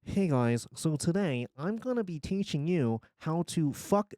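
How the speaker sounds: lightly voiced Minecraft tutorial host; mock video intro, lightly performed; Minecraft YouTuber. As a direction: put on a hint of a gamer-tutorial voice. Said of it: "do I have that Minecraft accent".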